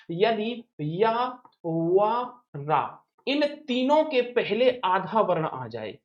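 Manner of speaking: "इन तीनों के पहले आधा वर्ण आ जाए" said slowly, word by word; slow dictation. Shown as a demonstration. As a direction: dictate the rule slowly so students can write it. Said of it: "ये trick कहती है". ("इन तीनों के पहले आधा वर्ण आ जाए" धीरे-धीरे, शब्द-शब्द बोलकर)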